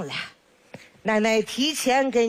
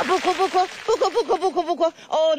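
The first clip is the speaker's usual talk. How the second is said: put-on soothing baby; 7 semitones higher, faster than usual.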